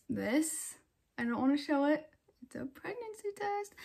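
unvoiced secret whisper. Real, not acted. Telling the camera about the test, whispered. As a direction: breathe it out as a secret.

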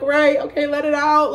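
high, playful permission to cry; sassy encouragement. Retold or imitated. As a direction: egg her on with sass. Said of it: "I'm like".

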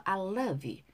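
"love you" joined as one "luv-yoo"; V linked to you. Shown as a demonstration. Teacher shows the linking, "love you" joined on the V. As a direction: run the V of "love" straight into "you". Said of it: "V 발음하고 U를 붙여서".

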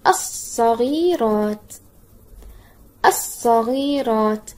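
الصغيرات slowly as "as-saghiraat", long s, no l; spelling-out model. Shown as a demonstration. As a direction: stretch each syllable of الصغيرات for spelling. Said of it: "هيا بنا نهجئ كلمة".

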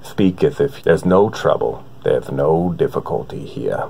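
Morgan Freeman impression. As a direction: speak as if there's no trouble at all, slowing down to a breathy finish. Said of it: "Now, Morgan".

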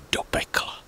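spooky whisper. A narrator's reading. Narrator teasing the children about hell, whispered.

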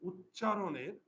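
slow, word by word for pupils to write; teacher dictating a rule, slow and spaced; slow dictation. Shown as a demonstration. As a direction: dictate it slowly with pauses.

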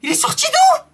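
high shrill panicked question; panicked squeak. Real, not acted. Scared gamer asks where the monster came from, panicked. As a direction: squeal it in shock.

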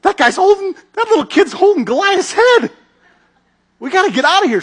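very high, loud, frantic alarm; panicked soldiers. Retold or imitated. Philistine soldiers seeing Goliath's head, high panicked alarm. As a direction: squeal in panic and get ready to run. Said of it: "they're looking and they're going".

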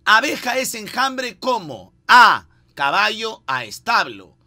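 quiz question read-out. Acted. Lee pregunta del concurso, deletreando opciones.

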